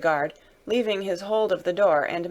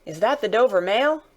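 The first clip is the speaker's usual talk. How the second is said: raised questioning call; distant rider hailing the coach; 3 semitones higher, 4 dB louder than usual. Acted. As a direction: call a question through the mist. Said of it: "a man's voice called from the mist".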